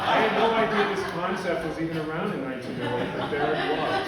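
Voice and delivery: can't quite keep the laugh down; laughing while talking. Real, not acted. Sharing the old notebook, talks through her own laughter.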